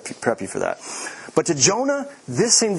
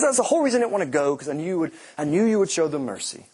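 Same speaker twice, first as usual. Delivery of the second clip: mad Jonah; 3 semitones higher, faster than usual. Retold or imitated. Jonah complaining to God he knew God would forgive, exasperated. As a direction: spit it out like a fed-up prophet.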